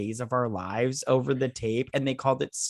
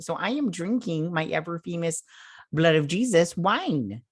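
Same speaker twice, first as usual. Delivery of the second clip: put-on Minnesota accent. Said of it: "talking with this accent".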